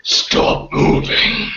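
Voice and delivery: high, drawn-out yell of a guard. Acted. Guard on the catwalk yelling at the sneaking prisoner, high, slow shout. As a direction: bark the order to freeze, slow and high.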